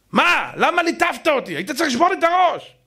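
high, complaining voice of a scolded congregant; pleading with the rabbi. Pretend. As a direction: cry out, asking why he wasn't struck. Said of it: "ואתם תגידו לי".

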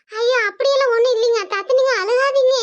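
daughter-in-law begging mother-in-law not to cry; pleading daughter-in-law. Acted. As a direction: plead with her to stop crying.

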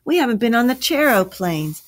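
put-on high, begging child; pleading. A narrator's reading. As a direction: plead eagerly, pitch climbing to the last word. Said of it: "pleaded Ethan".

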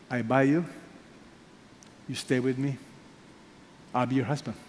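soft, quiet promise; tender husband. Acted. Preacher voicing Hosea taking his wife back, soft and tender. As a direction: gently reassure her she is loved.

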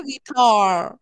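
guitar with the A pulled inward, lazy; guitar, A pulled back. Shown as a demonstration. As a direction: swallow the A in guitar. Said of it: "toca decirla así como para adentro".

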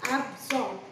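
absorb broken into two even beats; syllable by syllable. Shown as a demonstration. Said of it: "So two syllables".

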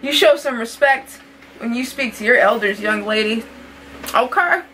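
scolding grandma. Pretend.

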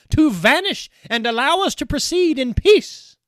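high, loud pleading voice; frightened young bride. Acted. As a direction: beg him away in alarm. Undine beseeches Kuhleborn.

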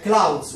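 clouds said slowly, each sound drawn out; clothes pronounced. Shown as a demonstration. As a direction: drag out clouds like a model word. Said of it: "تنطق clouds".

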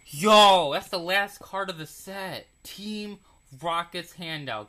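high, loud excited yelp; shrieking jackpot winner. Real, not acted. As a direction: shriek like you hit the jackpot. Pulls the last card of set.

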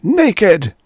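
slow, high, loud scream. Acted. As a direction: scream the demand. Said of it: "he screamed".

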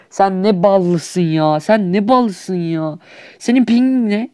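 slow, stretched mock disbelief; slow jealous jab at a lucky opponent; sarcastic drawl. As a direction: drag it out in mock envy. Mocking lucky opponent slowly.

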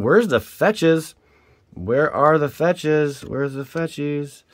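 slow, drawn-out begging; pleading. Real, not acted. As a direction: plead with the pack.

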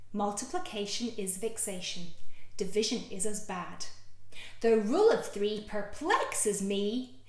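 put-on slow sing-song rhyme for children; lilting children's rhyme; rhyme reading. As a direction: read it out like a nursery rhyme.

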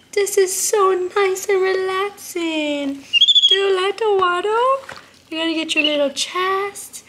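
put-on high, slow cooing to a baby pet; baby talk. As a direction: coo at him like a tiny baby. Coos to monkey.

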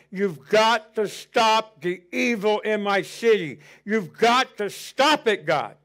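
slow, pleading prayer; a retold tearful cry to God, understated. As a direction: plead with God slowly and earnestly. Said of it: "I'm crying out to God".

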